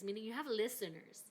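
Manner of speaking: ordinary talk, nothing marked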